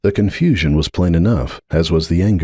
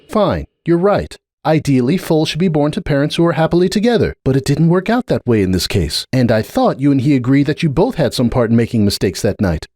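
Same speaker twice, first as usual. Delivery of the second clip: put-on lightly raised young mare voice, earnest; a lightly voiced earnest unicorn pleading her case; Starlight; 7 semitones higher than usual. A narrator's reading. Starlight pressing her point with Cupcake, earnest.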